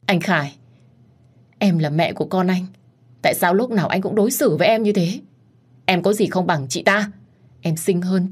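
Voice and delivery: mild tearful plea. Acted. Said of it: "khóc lóc".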